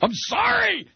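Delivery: very high, hammed-up cries of apology; over-the-top, high-pitched begging for punishment; mock-pleading wail. Hammed-up apology after offended caller hangs up.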